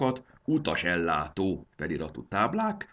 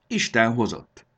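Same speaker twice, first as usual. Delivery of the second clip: higher, louder hearty greeting; cheerful welcome; 6 semitones higher, 7 dB louder than usual. Acted. Conductor greets the shy dragon girl, beaming. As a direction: welcome her in brightly.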